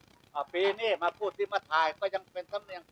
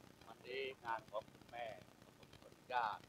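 funeral MC speech; 5 semitones lower, 9 dB quieter than usual. Shown as a demonstration. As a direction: open a funeral speech gently. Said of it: "เดินมาถึงว่า". (พิธีกรงานศพ พูดนุ่มช้า)

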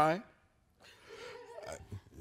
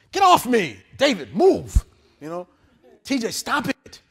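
put-on kids squabbling; 5 semitones higher, 6 dB louder, slower than usual. Kids bickering in car.

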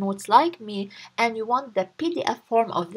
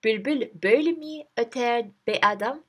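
angry. Acted. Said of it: "the garden's owner angrily says".

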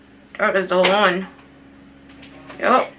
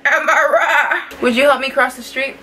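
put-on laughing old lady; 3 semitones higher than usual.

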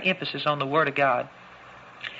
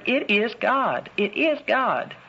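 rising emphasis; 4 semitones higher, slower than usual. Real, not acted. Climactic repetition in preaching.

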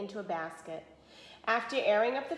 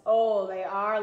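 louder, proud answer; 8 dB louder, slower than usual. A narrator's reading. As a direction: boast about grandma's muffins. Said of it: "said proudly".

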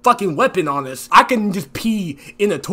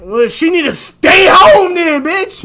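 mock outrage; 8 semitones higher, 6 dB louder, slower than usual. Annoyed at friend's budget talk.

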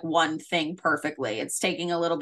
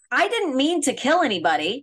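imitating Dorothy; 8 semitones higher than usual. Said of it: "so Dorothy says".

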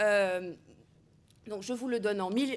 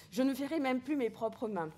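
pathos; 3 semitones higher than usual. Acted. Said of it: "y a beaucoup de pathos".

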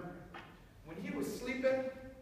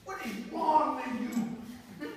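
high, loud scolding; an embarrassed father snapping at his son; loud, high angry telling-off; 6 semitones higher, 8 dB louder than usual. Acted. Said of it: "his father said".

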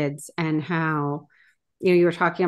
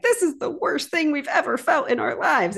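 put-on whiny kids; 9 semitones higher than usual. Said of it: "so they were like".

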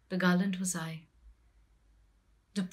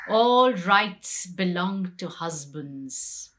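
bitter declaration; 6 dB louder, slower than usual. Acted. Draupadi protests husbands' rights.

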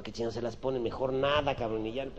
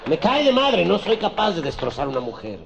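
high, loud words through laughter; laughing; 8 semitones higher, 12 dB louder than usual. Real, not acted. Teller cracking up at his own joke, loud and laughing. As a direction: laugh while you say it.

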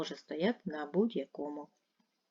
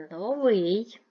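Новий with a loud, higher, long -вий; stress on second syllable; 4 semitones higher, 8 dB louder than usual. Shown as a demonstration. Teacher sorting words by stress, second-syllable stress on Новий. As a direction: punch the last syllable of Новий. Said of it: "Другий".

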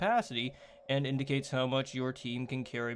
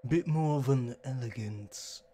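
prim, elegant butler voice; hoity-toity gentleman. Shown as a demonstration. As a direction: speak like a posh gentleman. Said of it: "a little bit hoity-toity".

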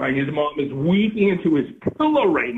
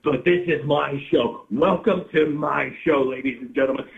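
whiny guy voice; 3 semitones lower than usual. Acted. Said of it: "whiny fucking guy off his medication".

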